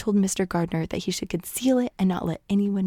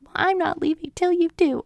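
high, louder imperious demand; haughty Lady Catherine; 10 semitones higher, 4 dB louder than usual. Retold or imitated. Lady Catherine demanding Elizabeth's promise, high haughty voice. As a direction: plant your feet and refuse to go.

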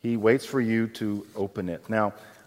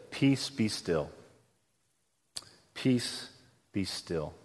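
soft, slow calming words that fade away; hushed command; 6 semitones lower, 9 dB quieter, slower than usual. Retold or imitated. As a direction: still the storm with a quiet voice. Jesus calming the storm.

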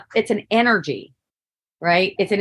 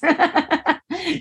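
high giggle; 7 semitones higher than usual. Real, not acted. Laughing at her own punchline.

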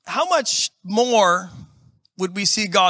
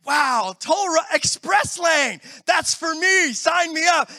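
mock eager excitement; 7 semitones higher, slower than usual. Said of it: "I'm like".

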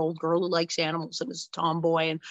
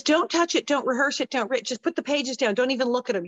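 higher, insistent imitation of an excited father; pressing, raised-pitch coaching; urgent instructions; 4 semitones higher than usual. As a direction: act out rapid-fire orders to a child. Father's urgent audition instructions, acted.

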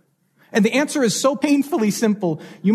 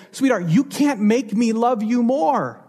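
can't leaned on, a little higher and gentle; tender parent; 4 semitones higher than usual. Retold or imitated. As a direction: reassure the child, pressing on can't. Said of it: "you would look that child in the eyes and you would say".

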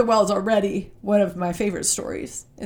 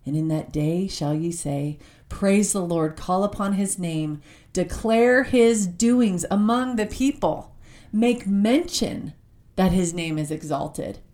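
scripture reading. Acted. Reads Isaiah aloud.

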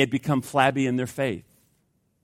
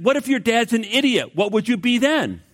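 mock-irritated teacher, pitched much higher; a little irritated; 8 semitones higher than usual. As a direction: play the annoyed teacher, light and exaggerated. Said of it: "a little irritated".

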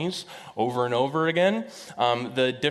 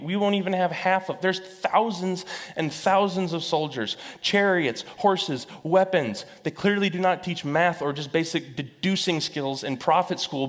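frantic servant; 6 semitones higher than usual. Acted. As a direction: count the odds in rising alarm. Servant panics counting soldiers.

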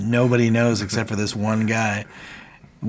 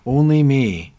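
funny voice; 3 semitones higher than usual. Retold or imitated. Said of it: "in this funny voice".

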